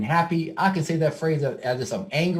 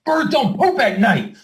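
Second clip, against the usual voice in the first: higher, louder and slow, demonstrating anger; acted anger; 7 semitones higher, 4 dB louder, slower than usual. Shown as a demonstration. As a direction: hammer it out slowly like you're furious. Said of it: "if I say it like I'm angry".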